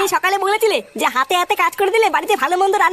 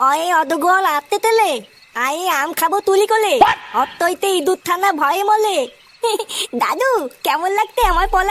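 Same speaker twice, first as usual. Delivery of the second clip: put-on lisping child recites a rhyme, slow; small child reciting. Grandson shows off his rhyme to grandpa, lisping childishly. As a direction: babyish sing-song, sounds blurred.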